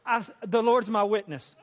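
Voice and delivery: real laugh breaking into the words. Real, not acted. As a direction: laugh through the oath. Laughing while insisting.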